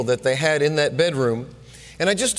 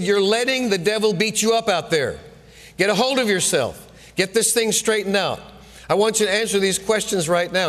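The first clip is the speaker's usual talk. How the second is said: coach getting after him; 3 semitones higher than usual. Retold or imitated. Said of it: "our coach was getting after us".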